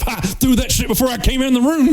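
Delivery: Black Dynamite bravado. Retold or imitated. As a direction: boast it like a blaxploitation hero. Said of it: "Black Dynamite of".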